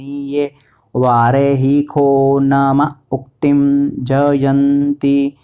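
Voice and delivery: slow, syllable-by-syllable Sanskrit chant on a level pitch; mantra recitation. Shown as a demonstration. Teacher reciting the whole mantra for learners, measured chant. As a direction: stretch each long vowel evenly. अब पूरा मंत्र बोलेंगे.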